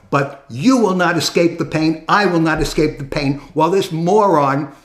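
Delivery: bitter, pressing rant with hard stresses; real anger. Real, not acted. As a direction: vent real frustration at the market. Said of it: "I'm sorry if I sound angry. I am angry".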